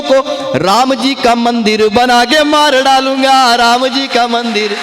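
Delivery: slow, drawn-out poetic declamation; kavi sammelan recitation. Acted. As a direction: recite each line with relish, stretching the words. Recites satirical poem to audience. (मंच पर कविता पाठ का धीमा, खिंचा हुआ अंदाज़)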